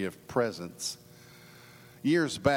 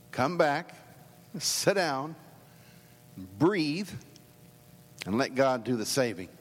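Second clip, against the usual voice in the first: imagined prophet's plea; 4 semitones higher, slower than usual. Pretend. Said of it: "he'd probably say something to you and me like".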